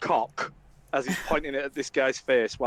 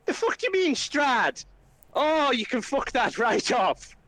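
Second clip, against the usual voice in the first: much higher, indignant; outraged disbelief; 8 semitones higher than usual. Acted. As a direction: refuse it flat out, aghast. Flynn at mention of Strahd.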